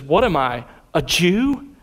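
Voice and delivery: mildly scornful mock question, rising at the end; sarcastic. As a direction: quote it with a touch of sarcasm. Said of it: "hear the sarcasm dripping from his words".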